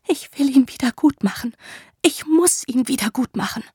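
desperate, begging to undo it; tearful pleading. Acted. Woman pleading in the tent, tearful and high.

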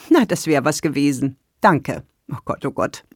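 a light giggle, last words breathy; giggling. Acted. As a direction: giggle it off, embarrassed. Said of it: "Sie kicherte kopfschüttelnd".

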